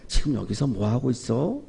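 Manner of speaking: 낮고 작게 건네는 하나님의 음성; 귀에 대고 나직이 묻듯; 조용히 귓가에 속삭이듯. Acted. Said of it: "조용한 소리, 귀에다가 속삭이는 소리". (낮고 조용한 속삭임 같은 소리)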